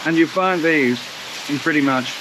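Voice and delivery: talking through a mouthful; words muffled by food; mouth full. Real, not acted. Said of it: "I've got food in my mouth".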